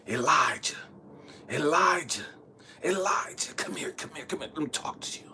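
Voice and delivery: softly voiced God, beckoning; God calling. God calling Elijah to come and talk, gently beckoning. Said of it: "God is calling me".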